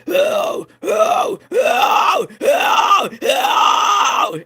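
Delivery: series of loud, pushed mid screams; short fry screams, each pushed hard in the mid range; midtone fry screams. Shown as a demonstration. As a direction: demonstrate repeated screams in the midtones. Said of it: "I could do midtones really well".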